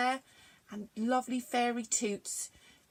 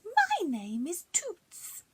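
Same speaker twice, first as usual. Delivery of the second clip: slow airy whisper; fairy introducing herself, whispered; 9 semitones higher, slower than usual. A narrator's reading. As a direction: breathe it as a fairy. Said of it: "She said".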